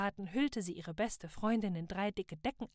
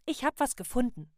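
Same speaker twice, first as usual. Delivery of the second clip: excited; 4 semitones higher, 7 dB louder than usual. A narrator's reading. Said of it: "erklärte Salaya".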